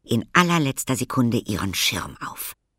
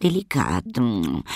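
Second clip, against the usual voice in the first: relishing lady; 3 semitones higher than usual. A narrator's reading. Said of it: "knusperte sie".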